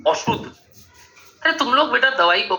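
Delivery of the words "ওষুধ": अशुद्ध said with a rounded opening "o"; Bengali pronunciation. Shown as a demonstration. Teacher mimics how Bengalis say medicine, Bengali "o" opening on अशुद्ध. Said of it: "Bengali लोग कहाँ हैं?".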